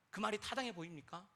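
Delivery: normal talking voice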